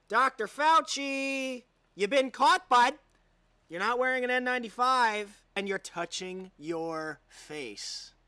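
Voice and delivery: loud, drawn-out gotcha call; gloating callout. Real, not acted. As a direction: nail him like you caught him red-handed. Gloating at Fauci caught on camera.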